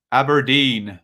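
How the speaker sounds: faux Scotch accent, abandoned halfway; half-hearted Scottish accent. Host naming a Scottish club, half-hearted faux Scottish accent. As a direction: attempt a Scottish accent, then pull out. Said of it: "don't know why I did that accent".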